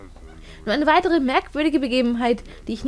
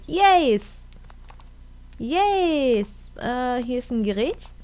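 usual speaking voice

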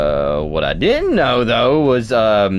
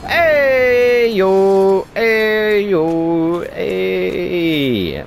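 high calling out; 10 semitones higher, 3 dB louder, much slower than usual. Acted.

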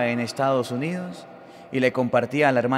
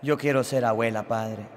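retold tearful pleading; 3 semitones lower than usual. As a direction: plead like a distressed mother, mildly acted. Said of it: "Lloraba la mujer".

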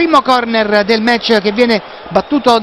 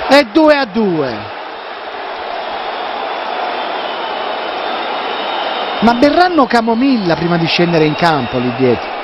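dejected; 6 semitones lower than usual. Real, not acted. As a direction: let the air out. Equaliser conceded.

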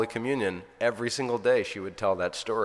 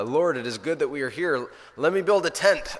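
voiced Peter, rising higher and louder in wonder; a dazed apostle blurting out his joy; awestruck Peter; 6 semitones higher, 6 dB louder than usual. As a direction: Peter carried away, pitch climbing as he goes. Peter's dazed words on Mount Tabor.

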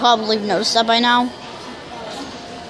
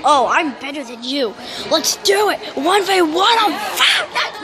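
cocky challenge; 3 semitones higher than usual. Retold or imitated. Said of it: "some people will take it as a challenge, like".

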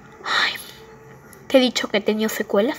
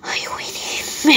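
whisper; slower than usual. Acted. Sad plea to Willy, whispered.

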